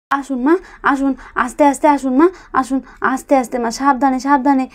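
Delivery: tender daughter-in-law guiding injured mother; gentle coaxing. Acted. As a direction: ease her along step by step. Helping injured mother-in-law walk.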